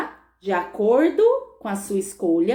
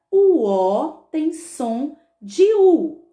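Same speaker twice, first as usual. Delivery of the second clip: drawn-out dictation, sounds held long; very slow teacher's dictation; 3 semitones higher, 4 dB louder, much slower than usual. Shown as a demonstration. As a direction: dictate slowly, stretching O and U. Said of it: "Você vai colocar assim".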